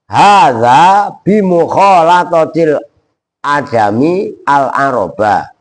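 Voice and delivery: slow, measured "Hadza bimukhalatatil ajami al-aroba"; slow Arabic recitation. Shown as a demonstration. Teacher correcting the student, reciting Ali's line slowly. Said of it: "Sayyidina Ali berkata".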